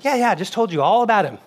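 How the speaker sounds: amused mock-indignant answer; laughing reply. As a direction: insist through laughter. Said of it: "I said".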